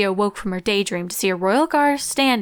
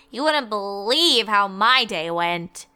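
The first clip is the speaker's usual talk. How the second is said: weary eye-roll; slower than usual. Acted. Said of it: "Twilight rolled her eyes".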